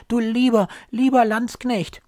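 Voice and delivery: high, loud call after him; old nurse calls after the departing soldier, loud and high. Acted. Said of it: "die Alte ruft".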